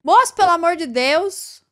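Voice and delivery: real nervous laugh then plea; nervous laughter. Real, not acted. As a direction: laugh off the scare. Laughing after a scare.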